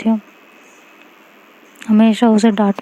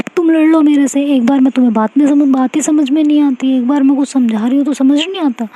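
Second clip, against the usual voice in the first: angry raised voice; 5 semitones higher than usual. Acted. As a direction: snap back at her friend, fed up. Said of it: "ये tone ना नीचे, ये tone ऊपर बढ़ी ना".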